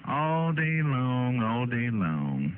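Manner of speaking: drawn out. Real, not acted. Drawn-out emphatic repeat.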